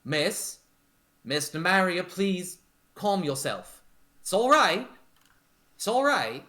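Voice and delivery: put-on older maid soothing. Older maid calming the angry mistress, high soothing plea. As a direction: settle her down, pleading. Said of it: "walks in and says".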